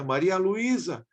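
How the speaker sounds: high mock yell of a mother, slow; retold harsh call. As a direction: imitate the mother calling out a touch aggressively. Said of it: "gritando alto".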